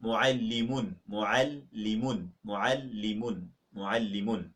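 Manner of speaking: muallimun said slowly, doubled l held; slow model pronunciation of muallimun; drilled Arabic word. Shown as a demonstration. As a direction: spell out muallimun slowly for learners. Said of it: "Masculine teacher".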